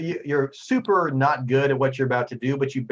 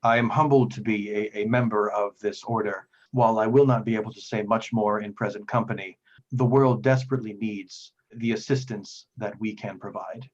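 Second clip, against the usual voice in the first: lightly voiced earnest priest; humble devout priest; 3 semitones lower than usual.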